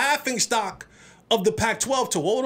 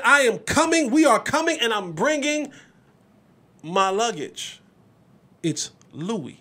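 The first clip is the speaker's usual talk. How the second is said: quoting Deion. Retold or imitated. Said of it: "Deion said".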